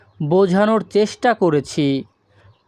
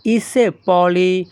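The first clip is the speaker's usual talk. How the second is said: ইসে পলি ও মরফি said slowly and clearly; slow Greek model phrase; slow demo; slower than usual. Shown as a demonstration. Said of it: "তখন আমাদের বলতে হবে কি?".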